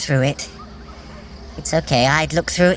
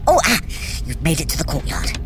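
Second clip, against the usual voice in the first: usual speaking voice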